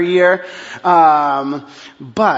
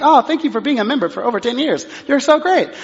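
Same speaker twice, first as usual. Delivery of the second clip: higher, fast, syrupy clerk gushing; mock cheery staff; 6 semitones higher, faster than usual. Staff thanking the pastor for membership, high fast gushing. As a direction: gush like an overly friendly clerk.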